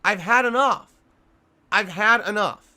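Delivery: loud, exasperated yell, real; angry shout. Real, not acted. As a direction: bark it out, at the end of your rope. Rant peaking about being fed up.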